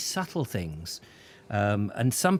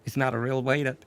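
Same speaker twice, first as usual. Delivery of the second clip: mild giddy reveal; faster than usual. Retold or imitated. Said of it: "he was just going".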